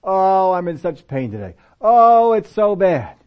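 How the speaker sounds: slow, moaning self-pity; complaining about soreness, moaning; whining complaint. Retold or imitated. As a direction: groan about the pain, drawn out. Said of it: "These are fearful words".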